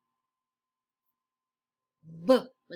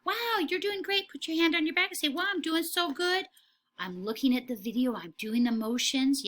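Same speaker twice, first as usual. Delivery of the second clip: excited praise; 5 semitones higher than usual. Real, not acted. Cheering children on.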